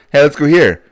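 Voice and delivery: mock eager suggestion. Friend imitating him picking restaurants.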